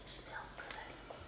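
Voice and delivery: slow savoring whisper. Real, not acted. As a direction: whisper it slowly, savoring the smell. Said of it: "Every time I start whispering".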